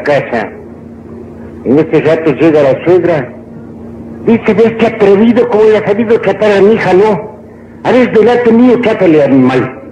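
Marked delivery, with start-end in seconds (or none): 4.5-9.8 higher-pitched mock outrage; scolding mother-in-law. Mother-in-law confronting her son-in-law, mock scolding. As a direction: lightly play an affronted mother-in-law.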